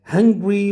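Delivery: "hungry" in two syllables, HUNG-gree; contrasting pronunciation. Shown as a demonstration. Teacher contrasts it with the country's name, "hungry" in two syllables. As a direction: run g straight into r in "hungry", no vowel between. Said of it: "it is not hungry".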